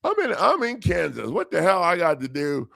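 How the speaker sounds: very high what the hell; retold exasperation; exasperated disbelief. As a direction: voice leaping then settling. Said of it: "I was like".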